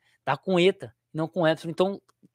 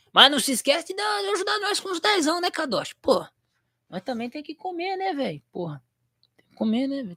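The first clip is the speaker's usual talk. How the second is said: higher, whiny pleading; mock begging; 9 semitones higher than usual. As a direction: beg playfully for the tip. Jokingly begging for donations.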